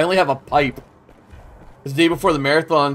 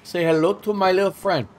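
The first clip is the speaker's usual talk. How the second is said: put-on gangster voice; 3 dB quieter than usual. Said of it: "Why I talk like that".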